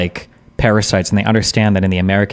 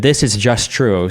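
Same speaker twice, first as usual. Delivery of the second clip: slow, mocking "This is just true"; mock quote; slower than usual. Shown as a demonstration. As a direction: drag it out to ridicule the claim. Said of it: "but you said".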